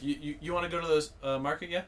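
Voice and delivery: casual invitation ending on rising "yeah"; British-style tag question. Shown as a demonstration. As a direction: tack on "yeah" with a lift. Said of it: "it's like in Britain, people say yeah".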